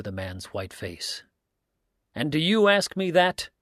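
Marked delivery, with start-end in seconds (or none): 2.1-3.5 high, loud, stung cry; indignant outcry at the father's tomb; cried out. A narrator's reading. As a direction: fling the question back, wounded. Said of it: "he cried".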